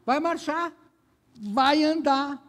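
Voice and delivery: high, loud commanding voice of God. Retold or imitated. God telling Moses to stop the weeping, commanding high and loud. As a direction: command the people to march on. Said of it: "sabe o que Deus fala para Moisés".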